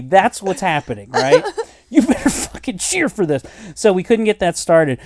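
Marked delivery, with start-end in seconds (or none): 1.9-3.4 higher-pitched, strained yell held back; half-volume imitation of yelling; mock yelled demand. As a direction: demand cheers, half in laughter. Repeats his yelled demand, laughing.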